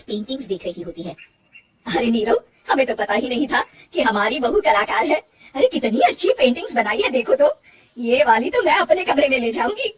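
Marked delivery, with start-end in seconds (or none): 1.9-9.9 loud, admiring mother-in-law; praising her bahu's paintings to her son; delighted mother-in-law. Acted. (खुश सास की तारीफ़)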